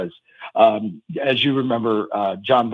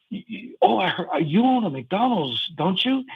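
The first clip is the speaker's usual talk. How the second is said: higher, lightly voiced little kid; a hint of a small child teasing the old player; 9 semitones higher than usual. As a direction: ask it like a curious little kid. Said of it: "I hear one of the little kids say".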